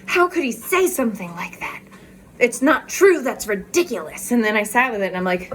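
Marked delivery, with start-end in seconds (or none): 0.0-4.3 retelling a touch of hurt outrage; indignant reaction. Retold or imitated. Rereading her brother's message, mildly indignant. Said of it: "triggered me and upset me".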